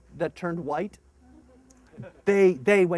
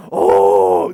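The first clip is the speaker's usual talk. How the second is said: put-on kids realizing; 11 semitones lower, 14 dB louder than usual. Kids understand.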